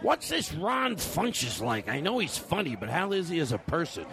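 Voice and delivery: executive. Acted. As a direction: play an executive asking around. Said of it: "want me to be the executive".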